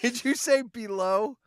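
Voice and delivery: drawn-out Wisconsin "below" with a long o; slow Midwestern Wisconsin accent. Retold or imitated. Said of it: "your Wisconsin accent".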